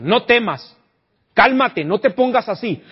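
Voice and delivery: loud, insistent calming; pushy reassurance. Pretend. Preacher voicing careless comforter to grieving father, loud and pushy. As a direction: press the grieving father to calm down. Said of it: "si le decimos".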